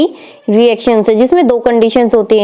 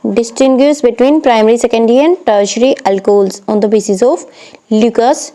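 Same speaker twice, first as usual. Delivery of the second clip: slow question dictation; 2 semitones lower, much slower than usual. Acted. Reads exam question aloud.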